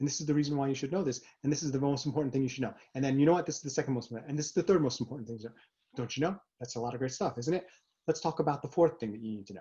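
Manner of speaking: rushed, very fast, rattled-off delivery. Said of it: "if you go too quickly".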